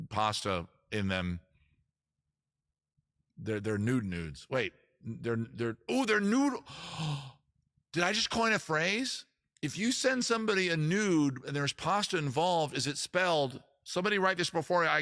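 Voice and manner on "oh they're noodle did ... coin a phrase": excited realization. Real, not acted. Streamer realizing he just coined a phrase, excited. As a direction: gasp with sudden delight at the idea.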